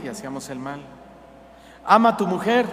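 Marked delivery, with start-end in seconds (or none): 1.8-2.6 voice of God. Acted. God's commands voiced.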